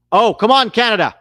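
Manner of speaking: loud, high groan at the screen; pleading cheer. Real, not acted. Fan yelling at the TV in frustration. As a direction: come on, beg the team loudly. Watching Canada match, pleading.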